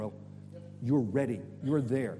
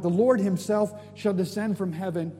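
raised, emphatic wonder; excited; 3 semitones higher, 3 dB louder than usual. Real, not acted. Preacher embracing the verse as literal, excited proclamation. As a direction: proclaim the verse with rising conviction. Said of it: "every time I think about it, I'm like".

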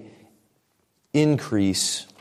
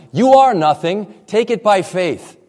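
blunt retort; 4 semitones higher, 4 dB louder than usual. Retold or imitated.

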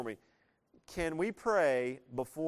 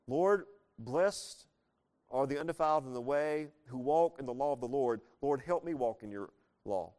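earnest spoken prayer, louder; 3 dB louder than usual. Acted. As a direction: pray the verses straight to God. Prays psalm aloud as example.

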